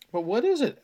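high, loud, startled question. Acted. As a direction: blurt it out in alarm. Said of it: "Albert stammered".

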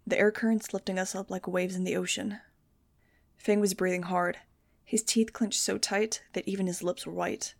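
steady story reading; audiobook narration. A narrator's reading. Narrator reading a teen adventure chapter, steady. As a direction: read the chapter to listeners. Reads novel chapter aloud.

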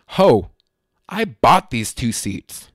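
loud, emphatic re-enacted protest; slow, indignant punch on each word; angry outburst. Passenger asked to step off the plane, angry. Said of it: "I was so angry".

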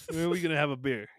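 hammed-up Aussie mobster talk; mock Australian accent. Host mocking an Australian mobster's threat, exaggerated Australian accent. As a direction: try an unintimidating Australian gangster accent. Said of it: "They just have that accent".

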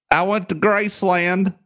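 high mock white-guy dub voice; white guy overdub. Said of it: "like, some white guy".

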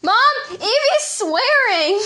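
high, loud laughing call to Mom; laughing tattle shout. Acted. Tattling to Mom about her friend swearing, high laughing shout. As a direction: yell out to tell on her friend, cracking up.

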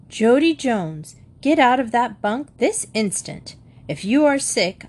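mild scolding. Acted. Mrs Jones orders Jody out of his bunk, mild scolding. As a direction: lay down the law, firmly but not shouting. Mother orders malingering son out of bed.

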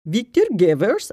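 Victor Gevers drawn out slowly in a mock Dutch accent. Shown as a demonstration. Host guessing how a Dutch speaker says it, mock Dutch accent. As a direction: try the name in a hammed-up Dutch accent. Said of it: "How would you say that if you were Dutch?".

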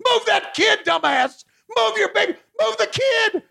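high frantic yell. Acted. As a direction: scream a warning at the crowd. Yelling at crowd footage.

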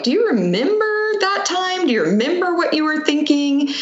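high, gentle mom voice asking son; asking her son. Retold or imitated. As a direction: sweetly ask like a mother. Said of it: "And I was like".

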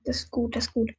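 soft relieved whisper. Real, not acted. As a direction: breathe it out under your breath. Hiding from enemy.

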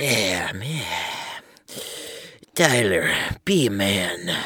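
low, heavy mock Russian accent; hammed-up Russian accent, deep and slow. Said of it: "I'm gonna have to punch a lot of Russian in this".

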